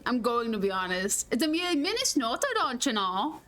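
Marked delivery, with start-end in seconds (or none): 1.3-3.4 mock Minnesotan accent. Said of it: "without a Minnesotan accent".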